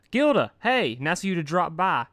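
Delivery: high, loud, tomboyish pony; brash high pony voice; Rainbow Dash voice. Acted. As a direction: voice the cocky pegasus up high. Dash voiced, face in wall.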